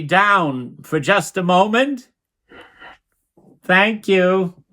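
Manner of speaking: careful, drawn-out phone politeness; ingratiating politeness. Acted. Mendy asks Mike to turn the music down, ingratiatingly polite. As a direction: ask slowly and sweetly, pitched a little up. Sweetly asking a favor by phone.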